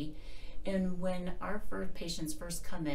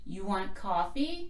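slow practice question; loud voice practice; 3 semitones higher, slower than usual. Shown as a demonstration. Demonstrating loudness in talking for patients, practice voice. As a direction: say it slowly as a voice exercise. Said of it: "practice loudness in talking like this".

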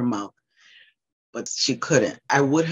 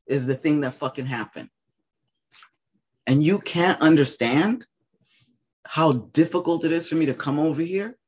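higher pained outburst at family; real anguished anger; 4 semitones higher than usual. Real, not acted. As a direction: pitch raised, voice strained with hurt. Raw anger at her family.

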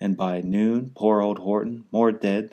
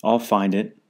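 louder, determined cry on I'll; cried out; 5 dB louder than usual. Acted. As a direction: stress I'll as a vow. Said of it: "cried Horton".

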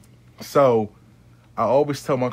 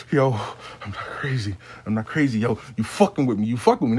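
a hint of a breathless, unhinged ex; heavy-breathing psycho; 3 semitones lower than usual. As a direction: breathe hard between the words like a mild mock psycho. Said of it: "Psychopath Steve breathing and shit like".

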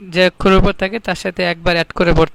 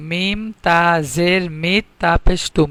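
slowed spelling. Shown as a demonstration. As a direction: stretch out each syllable of মিম তা জের মিত.

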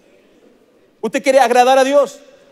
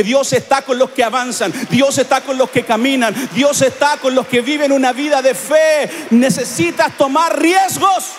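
1 preaching shout; 3 semitones higher than usual. Real, not acted. Climax of the sermon, shouting.

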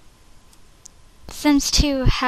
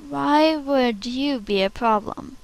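a breathy whisper with no voice; whispered take; 5 dB quieter than usual. Acted. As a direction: whisper the line as a secret. Audition takes, whispered.

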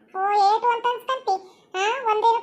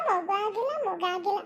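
trailing off softer each time; fading repeat; 6 dB quieter than usual. Acted. Daughter echoing her husband's taunt about no child, fading away. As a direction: let the words die away into a hurt murmur.

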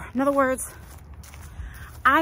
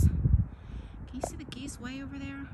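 whispering; 3 semitones higher, 7 dB quieter than usual. Real, not acted. Pointing out distant geese on walk.

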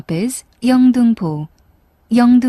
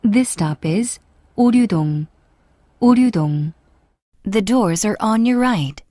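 over the intercom; 3 dB louder than usual. Real, not acted. English subway announcement on PA.

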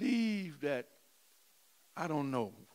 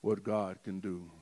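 softly recited hymn; 4 semitones lower than usual. Acted. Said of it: "The little song says".

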